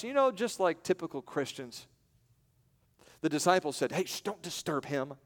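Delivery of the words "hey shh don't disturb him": softer, shushing the crowd; hushing. Acted. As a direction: hush them down. Disciples hushing the men.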